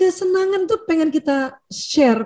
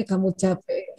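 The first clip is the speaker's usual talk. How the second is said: caring comfort; 7 semitones lower, 8 dB quieter, slower than usual. Shown as a demonstration. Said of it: "dibilangin sama suaminya".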